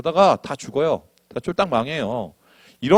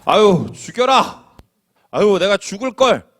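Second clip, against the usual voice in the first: slow, higher wailing grumble; whining complaint; 6 semitones higher, 4 dB louder, slower than usual. Acted. Israelites grumbling at Moses, mock wail. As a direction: drag out 아유 like a sulking complainer. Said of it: "모세와 아론을 원망하며".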